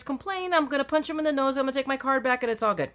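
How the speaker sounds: hammed-up tough talk, laughing it off; mock violent rant. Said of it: "man, I'm, I'm so violent".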